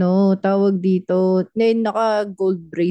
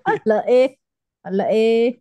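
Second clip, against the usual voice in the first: mock Batangueño accent; 3 semitones higher than usual. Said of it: "Nakakasar ako sa accent".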